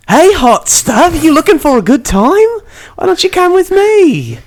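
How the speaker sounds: over-the-top high come-on. Acted. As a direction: really lay it on. Penny's line a third time.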